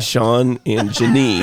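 "Janine" drawn out slowly with stress on the end; careful pronunciation. Shown as a demonstration. Speaker obeys a request to say it properly, careful "Janine". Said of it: "say her name properly one time".

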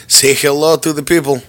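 put-on a light, offhand Russian accent. Host cueing his co-host in a mock Russian accent. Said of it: "I slipped into a random Russian accent there".

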